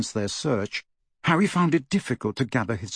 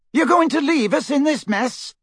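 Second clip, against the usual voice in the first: very high, incredulous challenge; affronted high-pitched question; indignant demand; 3 dB louder than usual. A narrator's reading. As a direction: demand an answer, pitched right up. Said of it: "demanded Michael Corner".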